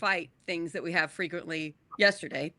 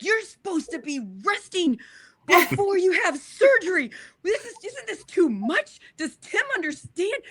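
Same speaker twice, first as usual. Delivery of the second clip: higher, pleading imitation of a worried husband; husband's worried voice; 9 semitones higher than usual. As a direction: voice the husband's concern, a touch pleading. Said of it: "And he's like".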